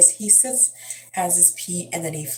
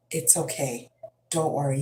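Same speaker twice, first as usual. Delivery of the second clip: reassuring mom. Retold or imitated. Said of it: "I just reassure him".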